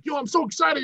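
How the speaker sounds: high-pitched gushing contestant impression; mock excitement. Contestant at the fun start of the show, mock excited. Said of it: "it starts out all fun".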